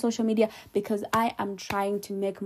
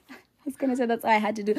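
laughing; faster than usual. Real, not acted. Laughs at her own slip.

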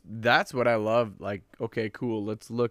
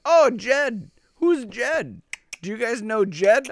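high, lively mock UK accent; lightly imitated UK accent, pitched way up; 11 semitones higher, 5 dB louder, slower than usual. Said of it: "they have this weird accent".

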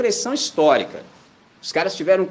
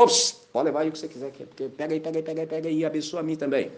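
eager shopkeeper; 5 dB quieter, much faster than usual. Retold or imitated. Shopkeeper eagerly gives goods.

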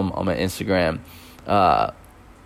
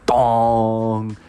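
imitated gong; 2 semitones higher than usual. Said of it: "a monk rang a dong".

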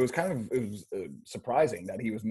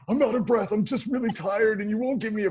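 high-pitched whining plea, out of breath; mock the gasping student begging for a break; whiny exhausted student; 11 semitones higher, 4 dB louder than usual. Meth addict whining to coach about being tired. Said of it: "he's like".

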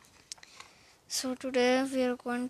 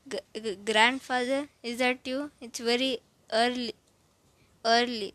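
stammering; 3 dB louder than usual. Acted. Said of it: "I stammered".

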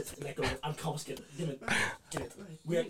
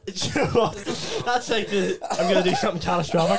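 laughing; 2 semitones higher than usual. Real, not acted. Laughing at damage.

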